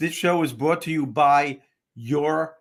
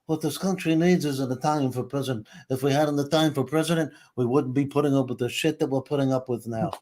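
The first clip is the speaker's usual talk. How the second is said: lightly voiced Brando-style Sicilian father; a hint of the father's Godfather rasp. Son quoting his Sicilian father, lightly Brando-like. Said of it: "My father always said".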